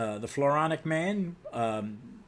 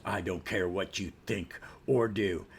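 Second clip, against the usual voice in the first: slightly deep, dismissive hero voice; Batman; 5 semitones lower, 3 dB quieter than usual. Acted. Stern superhero answering his partner's rant, low and dismissive. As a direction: brush it off in a lowered voice. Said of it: "Batman goes".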